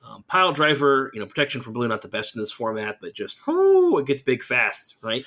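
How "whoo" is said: excited whoop. Real, not acted. Excited whoop about Pile Driver.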